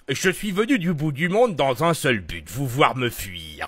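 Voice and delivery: vieux savant chevrotant qui ralentit; voix du professeur Farnsworth. Shown as a demonstration. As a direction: vieillard avec un dentier. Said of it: "si je fais Uber Fansworth". (voix de vieux savant)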